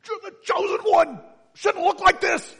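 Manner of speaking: hammed-up movie despair; Ben Kenobi. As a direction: wail it like a betrayed mentor. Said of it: "Ben Kenobi".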